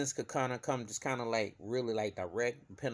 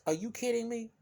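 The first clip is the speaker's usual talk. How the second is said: incredulous; 11 semitones higher than usual. Real, not acted. Incredulous rhetorical question.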